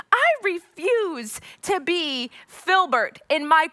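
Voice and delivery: high, slow, defiant declaration; mock defiance. Refusing her boyfriend's nickname, defiant. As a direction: declare it with playful indignation. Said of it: "And I'm like".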